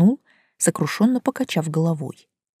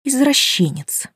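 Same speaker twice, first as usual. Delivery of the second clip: convinced; 7 semitones higher, slower than usual. A narrator's reading. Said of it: "убеждённо подытожила я".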